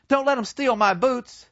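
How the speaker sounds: high, pleading; dying comrade. Retold or imitated. Wounded comrade pleading about his boots, high and pleading. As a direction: beg weakly for the boots. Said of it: "he looks up and says".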